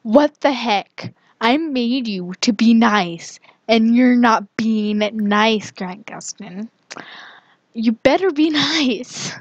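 mock-indignant telling-off with drawn-out words; playful scolding. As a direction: scold him like a naughty creation of yours. Scolds game character for being mean.

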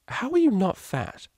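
high, slow, dazed blurt; blurted question. Acted. Octavia blurting a question to Vinyl, dazed. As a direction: let it slip out absent-mindedly.

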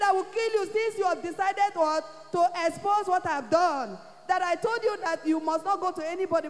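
husband roaring threats at his wife; retold angry threat.

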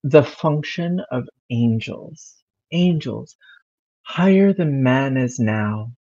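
sexy voice. Pretend. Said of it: "I'm getting prepared".

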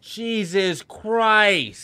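high, loud, slow horrified cry; horrified exclamation. Real, not acted. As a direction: let it out in shock. Horrified at photos.

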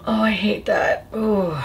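whispered groan of disgust; pained whisper. Real, not acted. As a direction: breathe it out unvoiced. Pained whisper after tasting spray.

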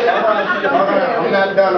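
very slow, high, loud, stretching every word; drawn-out shout. Real, not acted. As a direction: hold the floor, dragging it out. Grieving grandson insists on speaking.

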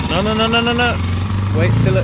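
loud, high rapid nos to stop her; urgent no. Real, not acted. Stopping partner from jamming the gear, loud urgent no. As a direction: cut in fast before she slams the gear.

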